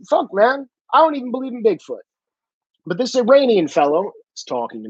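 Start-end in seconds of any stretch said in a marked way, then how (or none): 0.1-2.0 higher and fast, rushing it out; mock conspiracy guy. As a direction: rattle it off like a defensive crank, higher. Imitating a crazy-theory believer.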